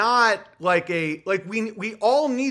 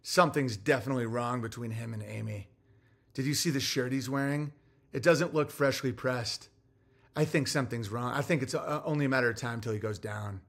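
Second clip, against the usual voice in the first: softer, hushed gossip of petty trolls; mocking gossiping trolls; 7 semitones lower, 7 dB quieter than usual. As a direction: sneer like a nosy busybody. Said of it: "They're like".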